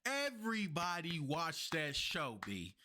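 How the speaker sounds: slipping into a New York accent; thick New York accent, casual. Real, not acted. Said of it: "My New York accent coming out".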